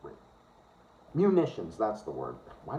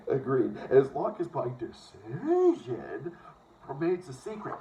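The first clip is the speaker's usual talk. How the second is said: put-on Dakotas accent. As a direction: read it like someone from the Dakotas. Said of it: "reading like as if they're from the Dakotas".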